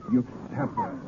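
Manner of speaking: stunned at the stabbing; horrified realisation; shocked. Acted. Woman stabbed before him.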